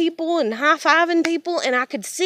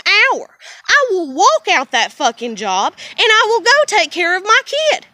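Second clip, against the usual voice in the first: building shout; 4 semitones higher, 4 dB louder than usual. Real, not acted. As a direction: voice climbing into a protective yell. Angry rant about leaving job.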